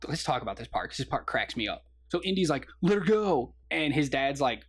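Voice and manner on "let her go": higher-pitched retold demand; mock plea. Retelling Indy demanding the woman's release, mock plea. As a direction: imitate an urgent hero, lightly hammed up.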